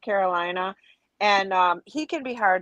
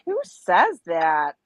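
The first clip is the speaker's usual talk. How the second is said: incredulous; 3 semitones lower, 3 dB louder, much slower than usual. Retold or imitated. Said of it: "And I'm like".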